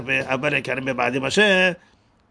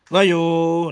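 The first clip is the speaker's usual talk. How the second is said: והיו with a long final syllable; והיו stressed on the last syllable; milra stress; 3 semitones higher, 4 dB louder, much slower than usual. Shown as a demonstration. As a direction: hold the end of והיו. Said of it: "میلئل، میرا".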